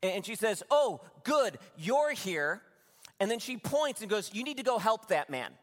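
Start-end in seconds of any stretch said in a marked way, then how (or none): 0.7-2.6 higher, louder burst of worried relief; concerned older woman. Retold or imitated. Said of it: "I can tell she's concerned". 4.3-5.5 higher-pitched, urgent request; concerned older woman. Retold or imitated. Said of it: "I can tell she's concerned".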